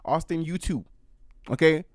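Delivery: put-on playful country-girl accent ordering her little brother; odd put-on accent. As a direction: put on a vague country accent and boss him along. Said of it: "I don't know what this accent is".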